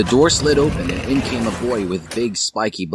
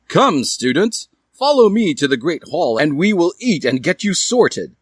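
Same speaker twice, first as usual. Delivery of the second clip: put-on old wizard; 9 semitones higher, 3 dB louder than usual. Wizard greeting the students.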